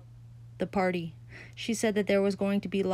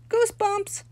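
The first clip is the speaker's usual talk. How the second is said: high, loud shout of discovery; a boy shouting to win the girl's favour; excited shout; 14 semitones higher, 5 dB louder than usual. A narrator's reading. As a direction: burst out with it. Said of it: "shouted Sheldon".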